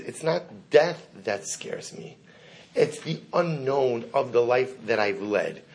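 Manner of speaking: slow, deliberate retelling; solemn confession. Retold or imitated. Dying rabbi confessing his fear to students, slow and solemn. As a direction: measure out each word gravely. Rabbi names what frightens him.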